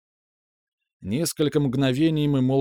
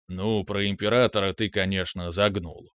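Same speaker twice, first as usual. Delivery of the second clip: softened voice; 3 semitones lower than usual. Acted. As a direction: let the anger melt away. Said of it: "уже подобревшим голосом".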